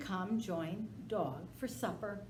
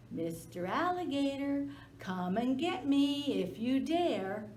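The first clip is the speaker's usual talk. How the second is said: menacing hiss; 6 semitones higher, 4 dB louder than usual. Acted. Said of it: "thumped his big tail and hissed".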